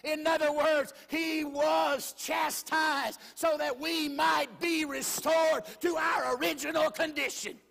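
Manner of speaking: slow, shouted preacher's cadence; preaching. Acted. Pastor preaching hard to the congregation, shouting slowly.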